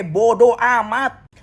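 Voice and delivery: dismissive. Pretend. Dismissive end of the rant.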